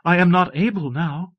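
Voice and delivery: high, breathless explanation. A narrator's reading. Abbess unable since the door opened, breathless. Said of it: "said the abbess breathlessly".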